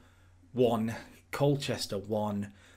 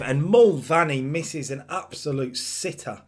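louder, slower match commentary; exasperated commentary; 3 semitones higher, 6 dB louder, slower than usual. Real, not acted. Commentator reacting to his striker's missed sitter, exasperated. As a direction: draw out the miss in disbelief.

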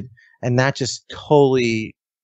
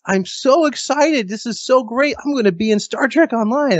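thrilled squeal; 11 semitones higher than usual. Retold or imitated. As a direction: stretch out every word with giddy joy. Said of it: "she was like".

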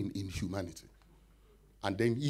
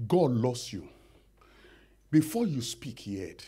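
whisper. Acted. Preacher whispering reassurance to the congregation. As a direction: breathe it tenderly.

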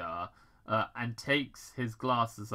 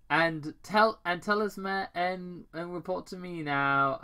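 Robotnik order; 7 semitones higher, 4 dB louder than usual. Acted. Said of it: "Doctor Robotnik ordered".

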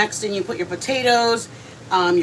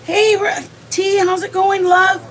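much higher, louder hello; excited greeting; 10 semitones higher, 6 dB louder, slower than usual. Real, not acted. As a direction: beam out a welcome to a friend. Greeting a viewer on live.

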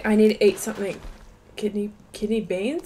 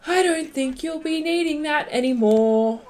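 put-on cowboy accent; 5 semitones higher than usual. Player looting fallen enemies, cowboy accent. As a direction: stretch the words in a cowboy accent. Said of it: "doing the cowboy accent".

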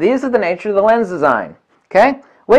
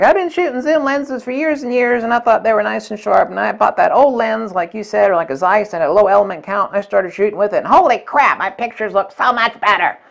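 mock convert; 4 semitones higher than usual. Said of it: "There have been thousands of people".

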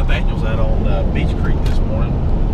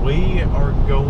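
slow, careful attempt at proper English; self-consciously proper English accent; perfect English accent; slower than usual. Shown as a demonstration. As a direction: enunciate each word in a careful English accent. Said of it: "trying to do my perfect English accent".

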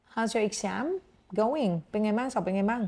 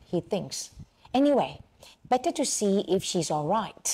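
measured English story reading with short phrase breaks; story read-aloud; much slower than usual. Acted. Teacher reads Jimmy's self-argument to students, measured read-aloud. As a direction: read each phrase clearly for learners.

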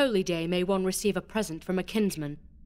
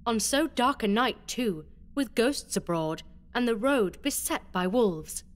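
bitter irony; 13 semitones higher than usual. Acted. Beatrice to Alonso, ironic and mocking. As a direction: feign worry to taunt him. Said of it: "bitter irony".

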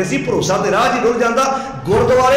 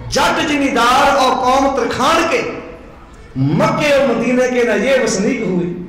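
chanted, slightly raised verse; slow poem recitation; slower than usual. Retold or imitated. Preacher reciting the full stanza to the sangat, slow chant. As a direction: recite the whole stanza slowly and evenly. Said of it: "ਕਹਿਣ ਲੱਗੇ".

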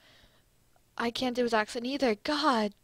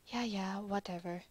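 put-on French accent; 3 semitones lower, 8 dB quieter than usual. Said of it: "that's a terrible French accent".

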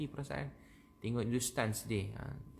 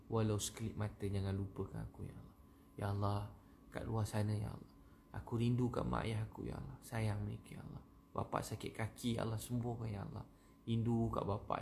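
intimate prayer. Shown as a demonstration. Resumes intimate prayer to God.

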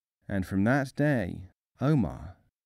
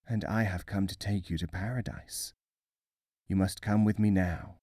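grim reaper voice; 3 dB quieter than usual. A narrator's reading. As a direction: speak softly like the reaper. Angel of Death speaks.

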